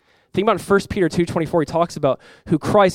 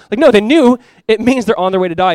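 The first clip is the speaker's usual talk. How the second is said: emphatic no; 6 semitones higher, 8 dB louder than usual. Real, not acted. Emphatic correction to the congregation.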